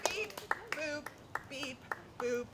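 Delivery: quiet playful beep boop noises; soft beep boop. Shown as a demonstration. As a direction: murmur beep boop lightly. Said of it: "You guys can just go".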